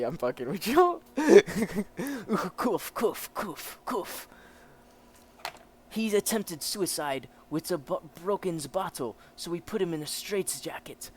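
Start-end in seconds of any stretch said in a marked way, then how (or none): 1.2-4.3 coughs said as the word "kuf"; jokey spoken cough. Acted. Reader joking about German coughs, mock coughing. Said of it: "don't know how to cough German". 5.9-11.1 commanding officer with a put-on German accent; German officer character. German officer explains the prisoner's state, acted officer voice.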